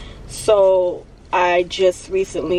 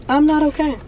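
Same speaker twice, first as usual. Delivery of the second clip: crying out; 8 semitones higher than usual. Real, not acted. Emotional outburst, high voice.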